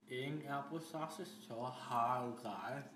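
mumbled through numb lips. Real, not acted. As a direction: mouth full of gauze. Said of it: "all I can feel is lip".

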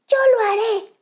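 high squeaky little sea creature; high tiny anemone voice. Acted. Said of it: "susurró una pequeña anémona".

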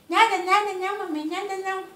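grandma voicing Tiliquinho to her viewers, high and playful. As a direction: play the little cheeky creature filming mom. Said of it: "Tiliquinho tá ali gravando tudo".

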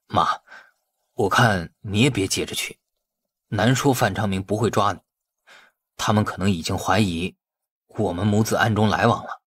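mildly worried son. Acted. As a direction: gently warn his mother. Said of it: "陆占林担心道".

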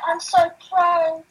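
slow, loud mock bragging; mocking boast. Player imitating people she hates, mocking boast. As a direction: drag it out like a smug show-off. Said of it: "I hate people like that. They're like".

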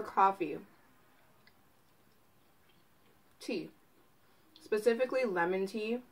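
eating chicken while speaking; talking while chewing. Real, not acted. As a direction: mouth partly full of food. Seen 2: Bites wing just before, mouth still working while speaking, holds wing.

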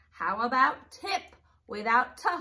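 slow, careful teacher read of "hip". Shown as a demonstration. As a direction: spell it out slowly for kids. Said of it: "take out the beginning sound".

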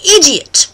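"Idiot" as a British word of the day; British demo. Shown as a demonstration. Host teaches word of the day, "Idiot" in put-on British. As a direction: pronounce "Idiot" carefully in mock British. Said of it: "teach you how to say".

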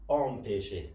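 "آم پیشه" with an open AW at the start; first syllable as آ. Shown as a demonstration. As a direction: open up "آم" to an AW, falling pitch. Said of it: "آ شود". («آم پیشه» با صدای آ در اول کلمه)

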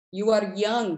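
put-on a gentle touch of an Italian accent. Poet quotes Paolo from the factory, light Italian accent. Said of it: "my attempt at an Italian accent".

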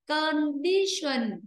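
"Condition" drawn out slowly, weight on di; slow, syllable by syllable "Condition", stressing di. Shown as a demonstration. Teacher explains to class, "Condition" slowly with stressed di. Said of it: "trong âm sẽ rơi phía trước nó".

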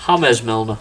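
name said through a laugh; amused repeat. Real, not acted. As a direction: chuckle it out.

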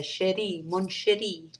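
light French accent on "Sherry, mon chéri". Shown as a demonstration. Streamer playfully addressing viewer Sherry, light French accent. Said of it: "say it with a French accent".

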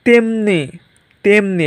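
তেমনি modelled as "tem-ni" with close "e"; তেমনি as a standalone demonstration, pure "e"; plain E sound. Shown as a demonstration. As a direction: say তেমনি carefully with a narrow "e". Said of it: "এ এর মতোই উচ্চারণ হচ্ছে".

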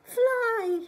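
high, loud warning call; shouted. Acted. Bear shouting to the bluebirds. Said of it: "he shouted to the bluebirds".

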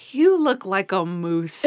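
slow, lightly imitated drunk; drunk Monk. Host retells Monk talking to sober Nicoletto, lightly played drunk. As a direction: draw the words out, a touch tipsy. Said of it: "Mister Monk is drunk".

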